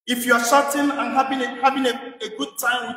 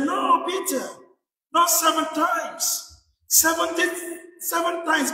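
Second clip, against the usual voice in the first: a hint of Jesus, higher and slow; lightly voiced Jesus; 5 semitones higher, slower than usual. Jesus corrects Peter, lightly voiced, slow and higher. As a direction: correct him gently, drawing out the numbers. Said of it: "And Jesus said".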